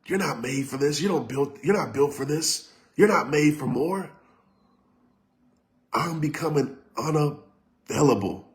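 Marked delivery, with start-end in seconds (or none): 0.0-4.1 softer, lightly voiced inner critic; a hint of the voice that says you're not enough; inner doubting voice. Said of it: "it says".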